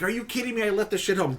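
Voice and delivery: hammed-up fake astonishment; mock shock. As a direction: play up pretend surprise at forgetting. Retelling his own fake shock.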